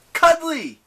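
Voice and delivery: high, loud shout; goading, high-pitched yell; yelled taunt. A narrator's reading. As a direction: yell it like an insult. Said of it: "Percy yelled".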